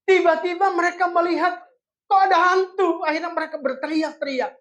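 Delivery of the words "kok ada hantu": panicked question. Acted. Disciples panic at ghost.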